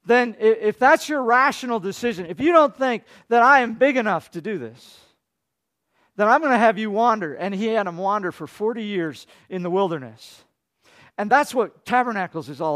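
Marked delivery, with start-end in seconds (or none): 0.0-7.3 voicing God. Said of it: "and so God says".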